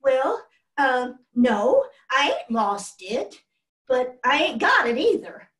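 lightly voiced nervous Taddy, hesitant and guilty; nervous boy. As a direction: fumble the words like a caught little boy. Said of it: "Taddy just stood there shaking".

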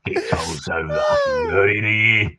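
put-on townsman in a Cockney accent, gruff and chatty; grumbling Cockney local greeting a stranger; Cockney NPC. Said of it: "you sound fucking Aussie".

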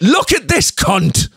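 high, drawn-out mock jeer; mock heckle. Host imitates online commenters pointing him out, mock heckle. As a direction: imitate a heckler calling out slowly. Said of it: "people being sort of like".

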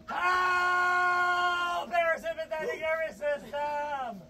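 shouted through the cold shock; teeth-chattering yell; shivering. Real, not acted. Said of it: "gasping from cold water".

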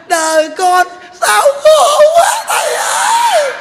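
over-the-top falsetto lament; exaggerated crying wail. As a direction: push the weeping woman's cry over the top. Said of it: "Này".

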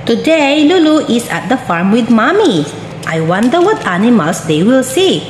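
bright, sing-song storybook voice; reading to a toddler. Acted. Reading a picture book to a toddler.

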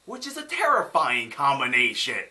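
loud, emphatic outburst; emphatic exclamation. Real, not acted. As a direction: hammer it home loudly. Exclaiming over an appalling combination.

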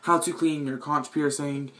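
echoey bathroom sound; talking in a tiled bathroom. Real, not acted. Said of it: "sorry for the echo".

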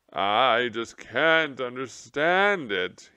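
the slumped general moaning to the mice. Acted. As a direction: moan it out in self-pity. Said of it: "he moaned".

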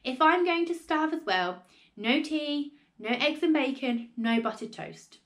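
loud, aggrieved complaint that eases toward the end; indignant shout. A narrator's reading. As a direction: storm at the household as an outraged grandma. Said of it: "she shouted".

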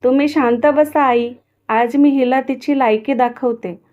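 daughter-in-law angrily silencing grandmother; angry. Acted. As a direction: shut the old woman down in rage. Radha furious at grandmother.

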